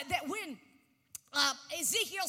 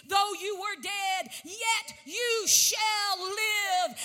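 slow, loud proclaimed promise; preacher proclaiming Jesus's words; preaching climax; 5 dB louder, much slower than usual. Acted. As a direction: drive the promise home slowly.

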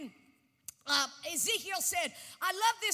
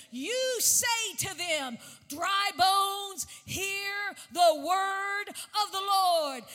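slow, drawn-out proclamation of scripture; a preacher reading Ezekiel aloud; slow preaching scripture reading; slower than usual. Acted. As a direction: lean into each word like a prophecy.

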